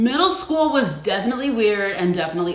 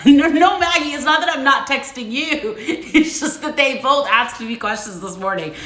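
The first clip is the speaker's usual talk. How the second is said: higher, flustered laughing explanation; laughing protest; 5 semitones higher than usual. Real, not acted. Host explaining unanswered texts to Maggie, laughing. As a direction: insist through laughter that it's not personal.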